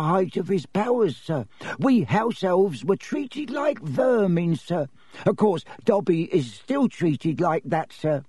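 high-pitched tearful elf lament; sorrowful little house elf, high voice; Dobby the elf, woeful. A narrator's reading. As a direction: plead mournfully in a high servile voice. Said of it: "more tears dripping".

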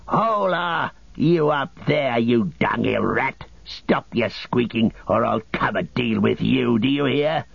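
a lightly voiced orc snarl. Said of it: "a snarling orc voice rang out".

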